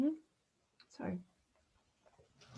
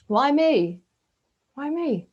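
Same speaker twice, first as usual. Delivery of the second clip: anguished why me; 6 semitones higher, 6 dB louder, slower than usual. Retold or imitated. Acting out self-pity.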